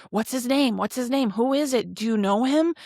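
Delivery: retelling Nicodemus badgering John for the name, excited; eager questioning. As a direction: press him, hungry for the name.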